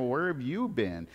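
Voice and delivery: quiet, disbelieving where have you been; incredulous question. Retold or imitated. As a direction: ask it softly, amazed he hasn't heard. Disciples ask the stranger, incredulous.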